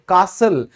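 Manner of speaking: कासल said without the t; silent t in castle. Shown as a demonstration. Teacher demonstrates castle with t silent. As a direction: say कासल, no t sound. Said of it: "कास्टल नहीं बोलेंगे".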